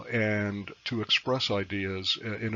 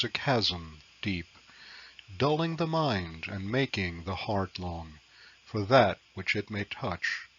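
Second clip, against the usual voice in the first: poetry reading. Acted. Reads own sonnet aloud.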